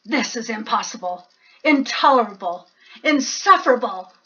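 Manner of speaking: fast, rising furious list; angry rant. Acted. Bear fuming at the mouse, fast and angry. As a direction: rattle off the outrage. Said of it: "shaking with anger and disbelief".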